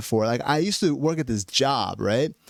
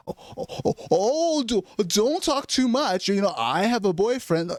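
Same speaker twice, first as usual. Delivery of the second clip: high, breathy-start mock girl voice, pitched way up; mock flustered woman; 7 semitones higher than usual. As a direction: squeal it like a prissy woman waving him off. Mock woman panicking over small talk.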